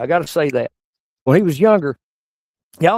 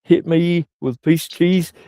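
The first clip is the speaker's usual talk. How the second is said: incredulous dad; 4 semitones higher than usual. Retold or imitated. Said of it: "and said".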